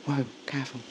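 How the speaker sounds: hushed gentle warning; soft warning. Acted. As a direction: whisper it, gently cautioning. Casper stops her gently.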